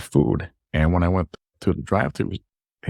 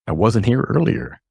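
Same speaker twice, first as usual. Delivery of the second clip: retold protest, higher pitched; protesting denial; 6 semitones higher, 3 dB louder than usual. Customer telling the drive-thru worker he wasn't there, protesting. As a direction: deny it in a higher, puzzled retelling voice.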